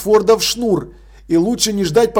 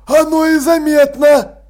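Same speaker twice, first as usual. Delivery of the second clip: grumpy exclamation; 7 semitones higher, 4 dB louder, slower than usual. A narrator's reading. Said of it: "сварливо воскликнул он".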